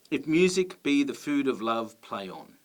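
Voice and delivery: a touch of theatrical recitation; reciting Shakespeare verse. Shown as a demonstration. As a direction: read it like a line on stage. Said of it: "This is a line from Twelfth Night".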